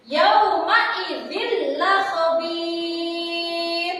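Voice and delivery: Yauma idzil la khabir chanted slowly with a snort on la; slow sung Yauma idzil with a nasal push before la; wrong nasal read. Shown as a demonstration. Teacher demonstrates the forbidden snorting reading. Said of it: "Tidak boleh dibaca mendengus seperti ini".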